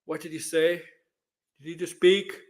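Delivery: calm, cool, collected; understated, unbothered acted questioning; Mando. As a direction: ask it as if it's no big deal. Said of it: "he's gonna be calm, cool, collected".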